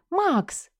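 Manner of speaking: sharp high cry of his name, in fright; startled cry. A narrator's reading. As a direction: cry out in alarm as he grabs her. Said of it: "вскрикиваю я". (испуганный вскрик)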